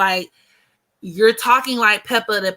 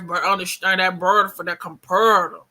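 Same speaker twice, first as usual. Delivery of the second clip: mock Memphis accent; 2 semitones lower than usual. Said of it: "they add all these extra R's".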